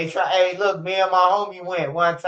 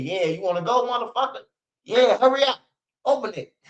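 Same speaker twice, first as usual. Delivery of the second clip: mock demand; 5 semitones higher than usual. Demanding they open the door.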